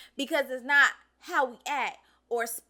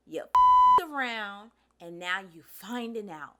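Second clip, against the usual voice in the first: louder, slow, every word landed; slow emphatic punchline; 7 dB louder, slower than usual. Real, not acted. Creator telling Trump voters the consequence, slow and emphatic. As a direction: drive the verdict home slowly. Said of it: "slow emphatic punchline".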